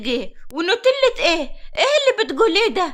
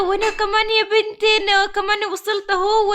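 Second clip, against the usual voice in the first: put-on old woman voice; 4 semitones higher than usual. Old woman says she arrived too.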